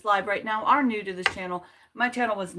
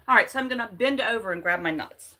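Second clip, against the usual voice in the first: louder, grinning double entendre; playful emphasis; 6 dB louder, faster than usual. Pretend. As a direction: lean into the joke out loud. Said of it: "any sentence that you use nut in is hilarious".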